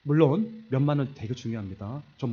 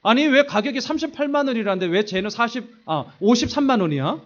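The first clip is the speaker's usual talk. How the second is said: griping at his wife over the price; angry complaint; 6 semitones higher, 8 dB louder than usual. Retold or imitated. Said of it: "제가 엄청나게 화를 냈습니다". (아내에게 가격 따지며 점점 커지는 화)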